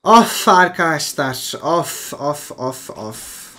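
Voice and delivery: long, loud "of" fading away; drawn-out groan sinking into weary softness; exasperated groaning. Real, not acted. Gamer groaning to viewers over a bad play, exasperated.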